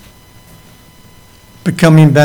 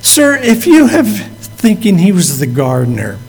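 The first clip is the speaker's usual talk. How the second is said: anxious pleading Mary; 4 semitones higher than usual. Retold or imitated. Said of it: "And she says".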